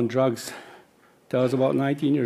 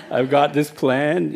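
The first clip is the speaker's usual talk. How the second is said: laughing; 3 semitones higher, 5 dB louder, slower than usual. Real, not acted. Laughing about retirement.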